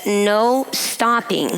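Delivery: reading the sign through laughter; laughing while reading. Real, not acted. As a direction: laugh between the words as you read them. Reads sign, laughing at danger.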